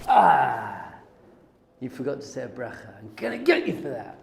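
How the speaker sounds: gotcha God. Pretend. God imagined pouncing on mistakes.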